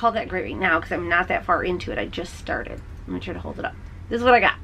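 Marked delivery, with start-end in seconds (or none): 2.0-3.7 much lower and softer, under the breath; muttered aside. Real, not acted. Knitter fumbling with the project, quiet aside. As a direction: drop to an aside while fumbling.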